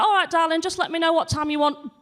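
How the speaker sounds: lightly voiced breezy reassurance; a hint of sing-song politeness; mock polite. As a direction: play it cheery and patient. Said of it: "I'm like".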